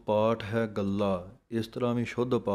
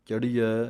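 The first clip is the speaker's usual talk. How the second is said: ਚੜ੍ਹੀਐ said tightly and firmly; 3 dB louder than usual. Shown as a demonstration. Teacher shows students a tight, firm ਚੜ੍ਹੀਐ. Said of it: "ਥੋੜ੍ਹਾ ਜਿਹਾ ਕੱਸ ਕੇ".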